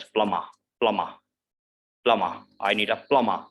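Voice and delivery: plumber with silent B and R; I need a plumber, British; plumber without R. Shown as a demonstration. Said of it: "R ... in the end is silent".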